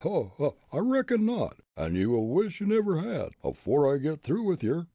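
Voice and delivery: loud, high backwoods bully voice; blustering ruffian. A narrator's reading. Bully Jake to tavern keeper, loud blustering bully. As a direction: bluster like a brawler itching for a fight. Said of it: "Bully Jake declared".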